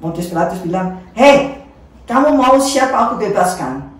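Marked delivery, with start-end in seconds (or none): 1.2-3.9 louder, raised address; calling to the crowd. Acted. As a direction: call out over the crowd.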